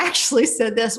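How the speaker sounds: ordinary talk, nothing marked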